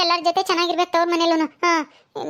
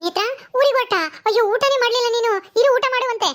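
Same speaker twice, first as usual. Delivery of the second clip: urging her to stay and eat; a young wife pressing her guest; higher, coaxing sister-in-law; 5 semitones higher than usual. Acted. Sister-in-law asks Netra to eat before leaving, coaxing.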